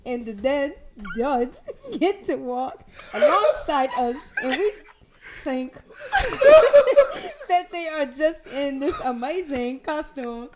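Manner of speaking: put-on laughing through a Jamaican-like accent; attempted accent, Jamaican-sounding. Actor reading about the walking dead, badly faked Jamaican-like accent. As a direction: push on with the shaky Jamaican-like accent, giggling. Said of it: "Is that Jamaican?".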